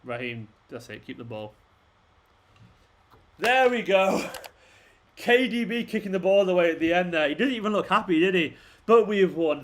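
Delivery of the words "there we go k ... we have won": relieved excitement. Real, not acted. Fan celebrating his team's win on stream, relieved excited cheer. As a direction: cheer the final whistle. Team wins the match.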